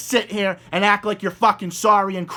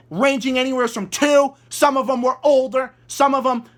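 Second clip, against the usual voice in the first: real indignant tirade, pitched high; outraged; 5 semitones higher than usual. Real, not acted. Commentator berating a mother over her deprived children, outraged. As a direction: throw the claim back in outrage, hammering repeated phrases. Furious answer to mother's played claim.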